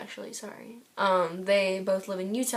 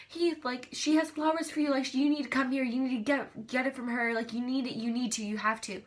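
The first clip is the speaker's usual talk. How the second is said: higher, insistent urging, easing off; urgent pleading; 4 semitones higher than usual. Retold or imitated. Ten fans urging Heath to take the flowers, urgent pleading. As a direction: plead as if calling someone over.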